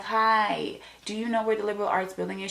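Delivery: high, sing-song polite question to a passerby; bright-pitched, quick "excuse me" voice; polite asking. Retold or imitated. Asking a passing young lady for directions, high and polite.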